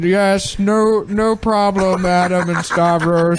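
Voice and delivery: slow, drawn-out villain voice; deliberate, pompous villain drawl; Doctor Evil voice. Pretend. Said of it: "Doctor Evil?".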